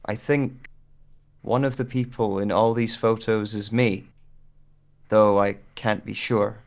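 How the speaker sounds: measured, slow narrator read with pauses; story narration. Acted. Actor recording a narrated scene, steady narration.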